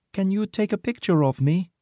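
put-on high-pitched girl soldier voice. A narrator's reading. Girl soldier watching the shooting, high girlish voice. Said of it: "she asks".

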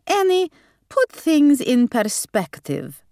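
slow, high Hungarian grandmother; slow down in a Hungarian accent. A narrator's reading. Gran reproving her daughter Annie, slow Hungarian accent. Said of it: "stubbornly held on to her accent".

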